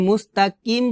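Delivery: "মুস্তাকিম" with a plain front k (kaf); light k in the middle of "মুস্তাকিম"; wrong kaf sound. Shown as a demonstration. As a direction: say "মুস্তাকিম" with an ordinary k, not qaf. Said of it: "কাফ উচ্চারণ করতেছি".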